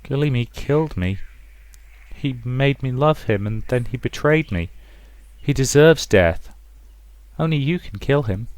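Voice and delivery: a betrayed dead woman urging murder; vengeful ghost. Acted. Ghostly voice demanding death.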